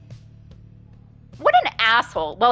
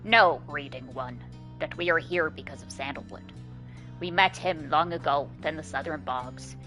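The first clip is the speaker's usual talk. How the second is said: Bertrude voice; 4 semitones lower, 5 dB quieter than usual. Acted. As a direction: intone it like an ancient seer. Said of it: "doing her voice sucks".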